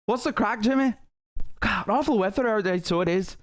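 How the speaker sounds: chirpy Belfast greeting, playing the local; mock Belfast accent. Mocking the trainer in a hammed-up Belfast accent. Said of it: "That is a fucking Belfast accent".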